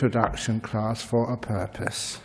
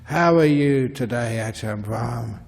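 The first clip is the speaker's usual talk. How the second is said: louder call, easing on the name; retold shout; 4 dB louder than usual. Young man hailing the monk before class, retold mild shout. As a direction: call out a greeting, mildly imitating a shout. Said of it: "he shouted out at me".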